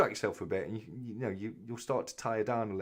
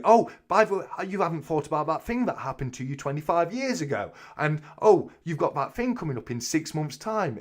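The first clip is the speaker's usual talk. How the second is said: much louder, higher mock nag; nagging inner voice; 6 semitones higher, 7 dB louder than usual. Mocking the brain that wakes him at night, loud and high. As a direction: voice your own brain pestering you. Mocking his mind at bedtime.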